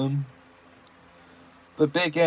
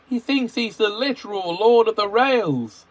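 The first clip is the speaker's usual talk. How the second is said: annoyed Edward voice; 9 semitones higher, 4 dB louder than usual. A narrator's reading. Edward complaining.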